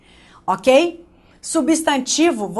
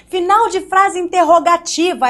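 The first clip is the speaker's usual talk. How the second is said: mocking old teacher; 5 semitones higher, 3 dB louder than usual. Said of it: "a minha tia Maricleia me ensinou?".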